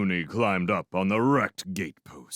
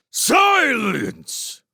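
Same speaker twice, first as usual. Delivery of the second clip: much higher, loud roaring command; 7 dB louder than usual. Acted. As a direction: cut him off with a furious roar. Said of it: "roared Clooney".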